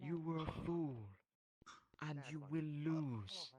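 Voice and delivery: tower over the defeated foe; megalomaniac rant. Acted. Villain demands the fallen bow.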